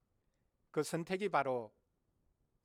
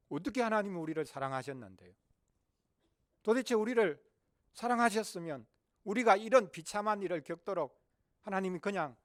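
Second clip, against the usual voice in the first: raised, challenging questions; indignant complaint; 4 semitones higher, 4 dB louder than usual. Acted. Israel answering God's claim of love, indignant complaint. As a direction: build from doubting to louder, higher protest. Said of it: "그런데 이스라엘이 말합니다".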